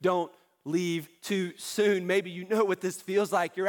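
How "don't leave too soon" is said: slow, spaced-out plea; measured, insistent appeal; earnest pleading. Real, not acted. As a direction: beg them, word by word. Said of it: "I'm begging you".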